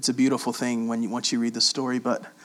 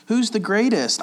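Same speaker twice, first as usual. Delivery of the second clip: mock bragging; 8 semitones higher, 4 dB louder than usual. Disciples arguing, mocked.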